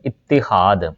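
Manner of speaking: इत्तेहाद as it-ti-haad, two short i vowels; correct pronunciation demo. Shown as a demonstration. Teacher showing both vowel marks, careful demo of इत्तेहाद as it-ti-haad. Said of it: "अलिफ के नीचे भी ज़ेर".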